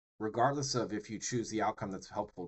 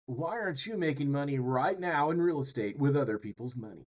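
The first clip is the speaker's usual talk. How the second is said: mock real-estate pitchman; 3 semitones higher, 3 dB louder than usual. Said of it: "somebody else who comes on and they're like".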